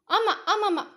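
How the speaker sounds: high, tight agreement with a strained laugh; through gritted teeth. A narrator's reading. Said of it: "என்றாள் பல்லை கடித்து கொண்டு".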